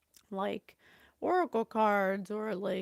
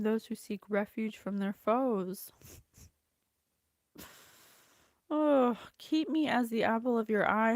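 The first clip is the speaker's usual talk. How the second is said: earnest, declaiming prayer; prayer reading; 3 dB louder than usual. Acted. Reading the psalm aloud to her viewers, earnest prayer. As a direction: read it as a heartfelt plea.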